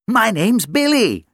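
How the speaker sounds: a bright puppy greeting; little dog voice. Acted. Dog Billy speaks.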